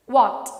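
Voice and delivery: what with lips rounded like O. Shown as a demonstration. Teacher showing the lip shape for what. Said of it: "you pronounce it like".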